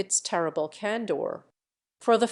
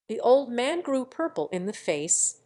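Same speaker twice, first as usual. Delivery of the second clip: ordinary delivery, nothing marked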